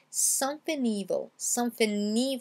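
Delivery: SOMETHING without its G, N joined to evil; dropped G. Shown as a demonstration. Teacher demonstrates for learners, G dropped and linked. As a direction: say "somethi-neevil" as one word. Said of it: "je supprime le G à l'oral".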